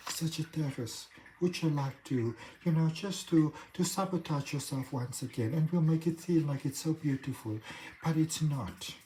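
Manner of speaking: soft, sultry mock French accent, breathy and coaxing; seductive French accent. Self-sabotage tempting the Sagittarius listener, soft sultry fake French accent. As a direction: purr it in a lightly faked French accent like a temptress. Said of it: "your self-sabotage has a French, um, accent".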